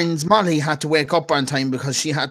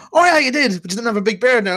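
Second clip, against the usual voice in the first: mock surprised acquaintance; 7 semitones higher, 3 dB louder than usual. Voicing an old college acquaintance.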